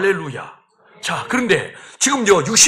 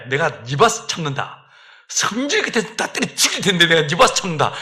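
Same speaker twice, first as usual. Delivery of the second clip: God sighing; 5 semitones lower, 3 dB quieter than usual. Acted. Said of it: "숨을 한번 훅 내쉰 다음에".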